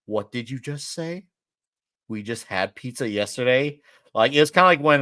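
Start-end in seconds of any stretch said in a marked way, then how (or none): 0.1-3.8 suddenly sober. Retold or imitated. Drunk festival-goer hearing pizza is off, suddenly sober. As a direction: drop the fun and question it gravely. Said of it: "I became sober at that moment".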